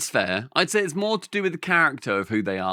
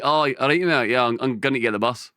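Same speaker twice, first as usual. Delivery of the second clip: casual Glaswegian chat; Glaswegian accent. Shown as a demonstration. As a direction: chat like a Glasgow local.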